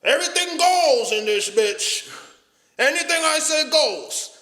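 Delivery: mock the parent who rules the house; toxic Caribbean parent. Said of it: "they have this toxic".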